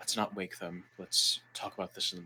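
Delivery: very quiet, barely audible hushed whisper. In a tabletop game, your character whispers to two party members before bed: whispering. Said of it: "I'm gonna I'm gonna whisper to Corvus".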